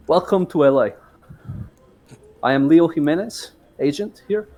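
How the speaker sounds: cartoony Spanish accent, lightly done; a touch of a Spanish agent accent. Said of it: "let us hear your Spanish accent for Leonardo".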